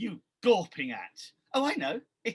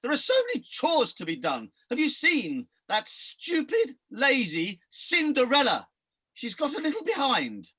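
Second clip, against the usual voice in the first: ugly sister; 3 semitones higher, 4 dB louder than usual. Acted. Ugly sister scolding Buttons.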